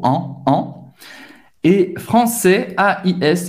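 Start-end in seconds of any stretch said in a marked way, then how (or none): 0.0-0.7 AN as a nasal vowel without N; donkey-like nasal. Shown as a demonstration. Teacher doing the donkey again, nasal AN. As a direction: bray AN through the nose. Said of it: "De novo, faz o burro".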